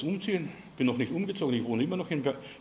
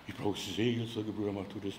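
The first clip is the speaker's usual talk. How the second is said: mock needy churchgoer; 9 semitones lower, 8 dB quieter than usual. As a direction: whine it like a helpless member. Needy churchgoer quoted in sermon. (leise, langsam gejammerte Bitte eines Gemeindemitglieds)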